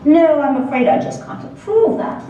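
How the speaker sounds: pseudo-British professor rejecting the topic; firm refusal. Acted. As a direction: refuse in a lightly faked British accent. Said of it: "in his crisp, pseudo-British accent".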